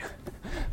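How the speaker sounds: quick unvoiced chuckle; short breathy laugh. Real, not acted. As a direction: laugh softly at your own joke. Laugh after imitated soldiers.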